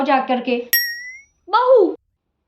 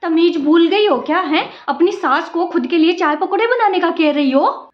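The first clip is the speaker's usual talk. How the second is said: offended scolding. Acted. Mother-in-law offended at being asked for tea, indignant scolding. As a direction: scold the lazy bride for her manners.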